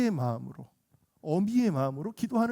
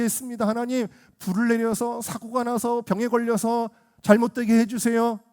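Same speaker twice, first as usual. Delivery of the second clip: higher-pitched complaint to God; mock vengeful prayer; 5 semitones higher than usual. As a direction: act out a grudge-filled petition. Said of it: "뭐 이런 마음일까요?".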